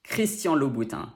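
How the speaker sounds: Christian Louboutin as "krees-tyahn loo-boo-tan" with nasal endings; French pronunciation. Shown as a demonstration. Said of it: "Now say it all with me".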